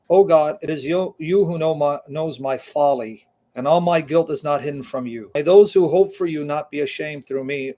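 fervent Bible reading; emphatic scripture reading. Acted. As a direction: proclaim the psalm like a prayer of distress. Reads psalm aloud.

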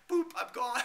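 high, laughing "Boop, I'm gone."; laughing exit. Retold or imitated. Laughing as the moderator kicks him out. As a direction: giggle it out as you leave. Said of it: "I said".

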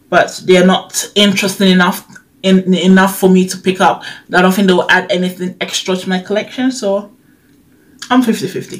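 slight lisp on s sounds; talking with a lisp. Real, not acted. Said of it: "sorry for my lisp".

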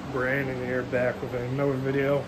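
hoarse, worn-out voice after illness; hoarse sick voice. Real, not acted. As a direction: speak through a lost voice. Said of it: "I sound sick".

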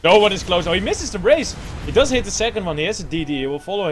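excited. Real, not acted. Excited casting of a fight.

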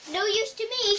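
high, loud witch dismissal; dismissive witch. Acted. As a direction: toss it off loudly as the witch.

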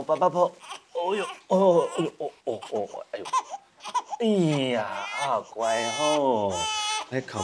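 put-on rock the baby gently with your voice; soothing a crying baby.

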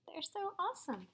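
soft hushed wonder; awed whisper. Real, not acted. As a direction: whisper it in awe. Reader in awe of fireflies.

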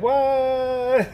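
high, drawn-out "what" dissolving into laughter; amused bafflement. Retold or imitated. Reacting to the cappuccino guy, laughing mock disbelief. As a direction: stretch it in disbelief, then crack up.

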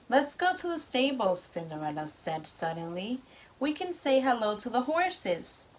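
lively storybook read-aloud; reading to children. A narrator's reading. Parent reads story to child.

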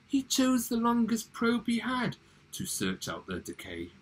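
theatrical storytelling in verse; poem recital. Acted. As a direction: recite with big swoops in pitch.

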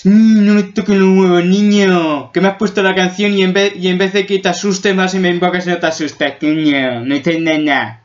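put-on loud, annoyed monster telling off a kid; angry monster. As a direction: scold the kid as a grumpy monster. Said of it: "un monstruo que te va a decir". (monstruo enfadado regañando al niño, más fuerte)

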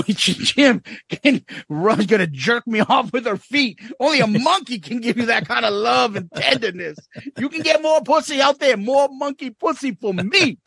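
a hint of a silly character, high and playful; quoting a Chappelle skit. Retelling a favorite skit to a friend, lightly hammed. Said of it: "he does that one".

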